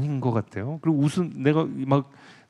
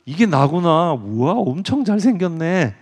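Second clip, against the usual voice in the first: louder, higher wonder at his own face; admiring exclamation; 4 semitones higher, 4 dB louder, slower than usual. Acted. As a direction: gasp in awe at how handsome he is. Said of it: "막 그러면서 감탄해하는 거". (감탄하며 외치듯)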